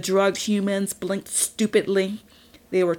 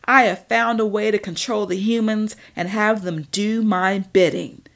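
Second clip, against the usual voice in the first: louder, slowing on my bidding; villain boasting to his rival, louder; gloating boast; 3 semitones higher, 5 dB louder than usual. Acted. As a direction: swell with triumph.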